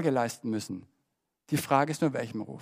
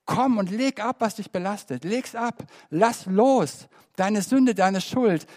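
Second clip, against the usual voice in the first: inviting call from the cross; 5 semitones higher than usual. Acted. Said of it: "Und es ruft".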